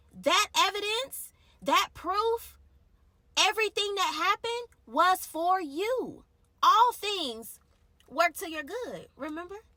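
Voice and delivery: voice of God. Retold or imitated. Voicing God's words, building up.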